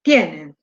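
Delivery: "Tienen" with TIE leading, low fall after; stress on first syllable. Shown as a demonstration. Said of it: "decirlo bien en voz alta".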